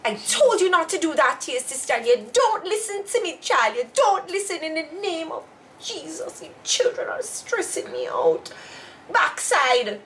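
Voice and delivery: a lightly voiced scolding mother; imitating scolding mother. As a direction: channel her strict mother. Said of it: "You do look like mommy".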